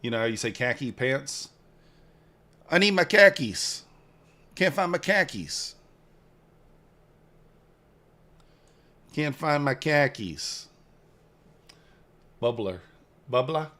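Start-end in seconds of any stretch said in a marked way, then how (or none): 2.7-10.7 higher-pitched mock Maine accent; playful try at a Maine accent; attempted Maine accent. Shown as a demonstration. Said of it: "how can I do a Maine accent?". 13.3-13.7 BUBBLER ending in an open ah, rising; higher, R-less Maine accent on Bubbler; attempted Maine accent. Shown as a demonstration. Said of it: "how can I do a Maine accent?".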